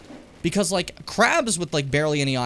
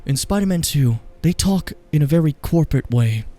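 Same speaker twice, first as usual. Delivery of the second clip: mocking critic; 6 dB louder than usual. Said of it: "someone being like".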